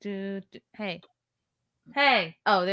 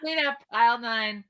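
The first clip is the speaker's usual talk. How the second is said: supermarket pa; 3 semitones lower, 4 dB quieter than usual. Pretend. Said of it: "sound like a supermarket announcer".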